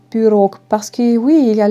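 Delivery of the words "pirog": pirog with the O stressed at the end; accent tonique sur le O de pirog. Shown as a demonstration. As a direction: lean on the last syllable of pirog. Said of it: "l'accent sur O".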